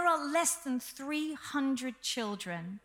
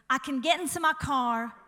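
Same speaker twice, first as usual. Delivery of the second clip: louder retake of the American line; American accent, restarted louder; 4 dB louder than usual. Retold or imitated. Preacher restarts his rancher joke, louder American accent. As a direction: go again, bigger in the American accent. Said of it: "hang on".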